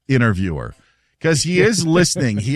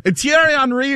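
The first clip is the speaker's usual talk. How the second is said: ordinary talk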